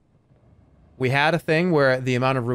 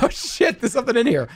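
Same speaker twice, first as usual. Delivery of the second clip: retold fright; 9 semitones higher, 4 dB louder than usual. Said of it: "And I was like".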